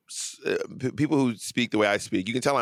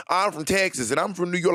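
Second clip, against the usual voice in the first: mock bragging; 6 semitones higher than usual. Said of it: "Texas and New York are so".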